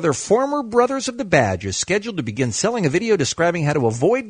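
animated radio article reading; news read. Acted. Host reads newspaper article to listeners, lively news read. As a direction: read it out like a news story, pitch swinging.

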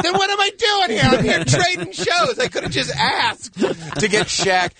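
high, slow exasperated disbelief. Retold or imitated. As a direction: squeal out the disbelief. His own retold exasperation.

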